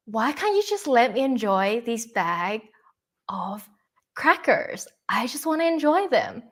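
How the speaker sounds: lightly voiced pleading inner child, pitch rising later. Speaker's inner child answers partner over crackers, lightly voiced childlike plea. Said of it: "my inner child goes".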